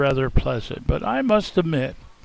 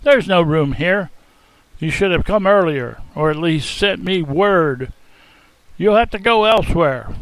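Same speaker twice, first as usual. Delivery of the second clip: blunt refusal; 4 dB louder than usual. Acted. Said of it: "I blurted out bluntly".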